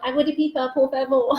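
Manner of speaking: Spanish in a hammed-up English accent. Shown as a demonstration. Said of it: "In my best English accent".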